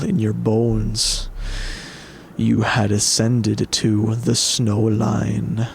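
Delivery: slow, hushed storyteller read; story narration. A narrator's reading. Reads game narration.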